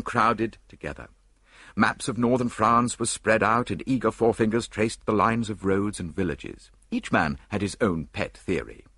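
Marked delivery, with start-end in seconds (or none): none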